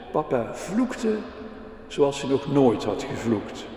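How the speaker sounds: put-on lively storybook reading for the kids; reading to children. A narrator's reading. Preacher reading a children's story to the congregation, lively storytelling. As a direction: tell the little story to the children in the pews.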